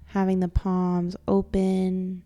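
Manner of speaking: soft, calm meditation voice with long pauses; guided meditation. Acted. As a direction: gently guide them into stillness, leaving space to breathe.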